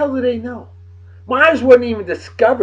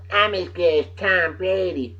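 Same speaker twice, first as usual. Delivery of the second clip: mock boast; 3 semitones higher, 4 dB quieter than usual. Mocking quarterback's boast.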